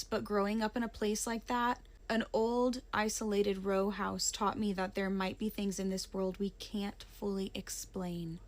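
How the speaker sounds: plain reading voice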